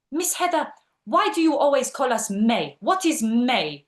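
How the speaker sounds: mock-baffled pupil querying the teacher's word; puzzled student. Palestinian student asking Miss Heather about her word, puzzled. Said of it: "one of them goes".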